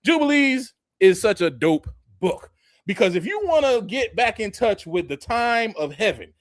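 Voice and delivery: normal talking voice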